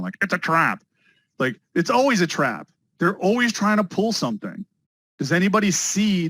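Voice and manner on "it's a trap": lightly voiced alien admiral warning; a hint of the Star Wars squid admiral; Admiral Ackbar impression. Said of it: "that squid guy from Star Wars in the back of my head going".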